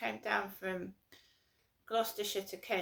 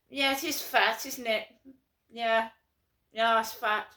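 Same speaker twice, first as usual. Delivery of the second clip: mock posh mates; 5 dB louder than usual. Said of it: "Talk to each other, posh mates".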